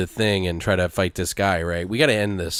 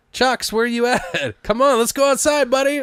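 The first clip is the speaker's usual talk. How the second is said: calling the dog; 12 semitones higher than usual. Acted. The owner calling his dog to go outside, high and coaxing. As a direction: coax the dog out like a doting owner.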